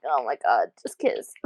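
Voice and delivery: low, hushed then whispered; begging the couple under her breath; whispered fangirl plea. Retold or imitated. Fan urges the characters to kiss, low whisper. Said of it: "I'm like".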